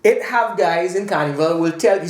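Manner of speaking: slow, put-on Trinidadian accent; Trini accent. Trinidadian accent, told to friends about carnival. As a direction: lay the Trinidadian accent on thick. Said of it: "notice I have to put my Trini accent on".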